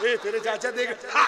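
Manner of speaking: words broken by a giggle; a mock giggling friend; laughing while talking. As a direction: chuckle through the warning. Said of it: "वो हंसते रहता".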